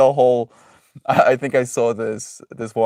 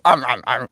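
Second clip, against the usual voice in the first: dog munching noise. Retold or imitated. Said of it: "And then it goes".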